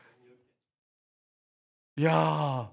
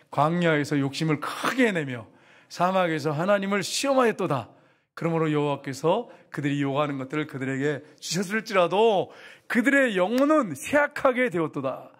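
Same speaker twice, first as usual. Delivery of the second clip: scripture reading. Acted. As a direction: read the verse with weight. Reads scripture aloud.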